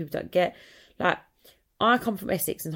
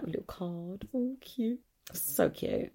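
small, soft cutesy coo; hushed little aww voice; 3 semitones higher, 7 dB quieter, slower than usual. Real, not acted. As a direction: coo sweetly over something tiny. Cooing over a child's card.

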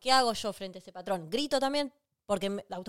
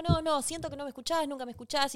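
higher, hurt, upset complaint; upset partner; 5 semitones higher than usual. Retold or imitated. Partner who feels unheard, complaining upset and higher. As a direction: protest "no, no, siento que no me escuchás" in a raised, upset voice. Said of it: "si se enoja".

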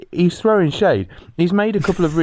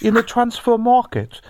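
put-on higher old Chinese man voice; Roy Hodgson as old Chinese man; 4 semitones higher than usual. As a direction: play a frail old Chinese manager. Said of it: "done Roy Hodgson as an old Chinese man".

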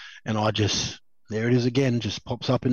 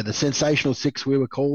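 mock grand; 2 semitones higher than usual. Real, not acted. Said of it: "the illustrious six".

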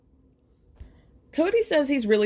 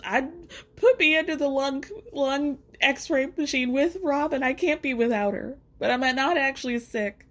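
higher, slowed mock Cody; 4 semitones higher than usual. Recapper mocking Cody's x-ray excuse, higher and slowed. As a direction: parody Cody's clingy claim. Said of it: "you were claiming you just".

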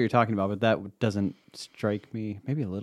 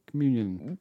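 Spanish accent; 2 semitones higher than usual. Shown as a demonstration. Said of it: "It's my Spanish accent".

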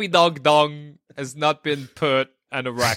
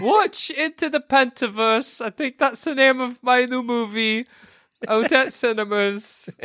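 Shrek voice; 7 semitones higher than usual. Pretend. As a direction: ham up the Shrek promo. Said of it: "continues Shrek impression".

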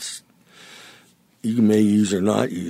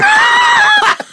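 laughing; 9 dB louder, slower than usual. Real, not acted. Laughing self-correction of swear.

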